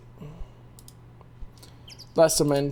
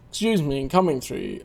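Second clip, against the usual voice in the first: lower, plain polite push-through; low-voiced passerby; 3 semitones lower than usual. Another character pushing through the crowd, low and polite. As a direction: drop the voice to edge past the crowd. Same line, second character.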